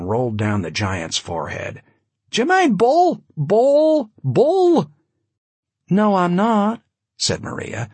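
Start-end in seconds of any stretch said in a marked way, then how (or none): 2.3-4.9 high, loud shouted calls; high-pitched giant. A narrator's reading. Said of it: "he had an oddly high-pitched voice". 5.9-6.8 higher, louder sharp reply; testy Maria. A narrator's reading.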